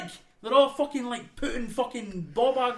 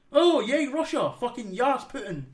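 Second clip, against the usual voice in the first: sarcastic cheer; 5 semitones higher than usual. Acted.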